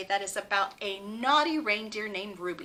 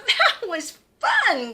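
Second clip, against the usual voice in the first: a light giggle on the word; giggled; 5 semitones higher, 4 dB louder, slower than usual. Acted. Ruby giggling as she makes mischief. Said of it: "giggled Ruby".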